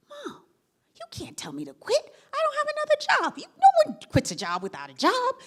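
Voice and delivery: high, near-crying protest to mom; teary pleading. Retold or imitated. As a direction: whine it out like a desperate young daughter. Retold self pleading with mother.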